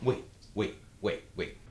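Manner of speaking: hushed urgent whisper. Acted. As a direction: whisper wait, hold on. Son whispers to hold father.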